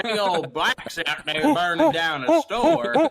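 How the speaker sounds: high, loud, slow redneck drawl. Acted. Demonstrating their own redneck impression, in a loud high twang. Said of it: "my redneck voice is".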